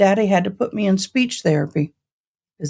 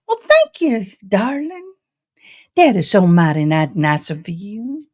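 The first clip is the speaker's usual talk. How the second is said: grandma voice. Retold or imitated. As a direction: gush like a genteel grandmother thanking you. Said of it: "That's how my grandma talked".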